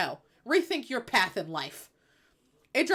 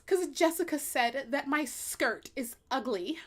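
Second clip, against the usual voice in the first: slow, higher fake-tearful whine; hammed-up weepy excuse; mock crying; 4 semitones higher than usual. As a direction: blubber like a high school girl in the bathroom. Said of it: "they would cry in the bathrooms".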